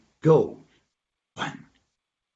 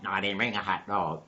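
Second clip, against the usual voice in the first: lower, softer deadpan reply; dog denying; 5 semitones lower, 6 dB quieter than usual. Acted. Dog answers donkey's food question, low subdued denial.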